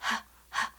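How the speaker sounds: breathy unvoiced "h, h"; just push out air on "h"; h sound demo. Shown as a demonstration. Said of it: "you hear".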